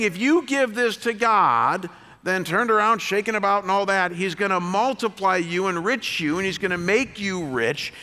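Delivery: hint of a televangelist promising riches; mock TV preacher. Mocking TV preachers' promises to the congregation, light preacher voice. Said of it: "they're saying".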